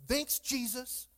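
slow, drawn-out mock gratitude; sarcastic thanks. Disciple sent into a storm, sarcastic thanks. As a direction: stretch it out, unimpressed.

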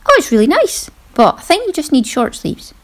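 a light take on the husband's compliment; husband casually suggesting short sleeves, mildly imitated; imitating her husband. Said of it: "He then said".

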